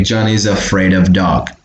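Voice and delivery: "Johnny's afraid of dog" run together as one word; connected speech. Shown as a demonstration. Teacher repeating the model, linked pronunciation. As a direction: link "Johnny's afraid of dog" without gaps. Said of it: "sound like a one word only".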